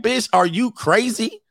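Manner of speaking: high, slow, rising disbelief; mock incredulity. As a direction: imitate someone stunned by her stupidity. Acts out an incredulous onlooker.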